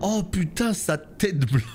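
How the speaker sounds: high startled yelps; scared horror game streamer. Real, not acted. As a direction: jump scared by a monster. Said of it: "comment il m'a fait peur".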